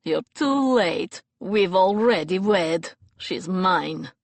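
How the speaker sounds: slow, loud triumphant gloat; gloating villain. Acted. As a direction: rub in his victory. Vasili gloats.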